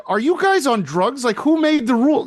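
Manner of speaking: mock-furious, are you on drugs; retold incredulous outburst. Coach arguing with referees over a blitz rule, high indignant disbelief. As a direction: pitch shooting up in angry disbelief. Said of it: "So I said".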